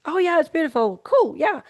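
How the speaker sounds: bright, high, over-the-top praise for a scribble; mock delighted praise. Parent praising a toddler's scribble, hammed-up gushing. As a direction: gush like a parent humouring a toddler's drawing. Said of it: "And you're like".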